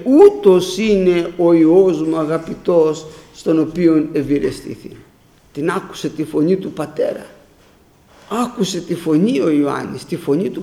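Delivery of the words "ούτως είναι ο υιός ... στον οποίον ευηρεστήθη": quoting the Father. Retold or imitated. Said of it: "που είπε".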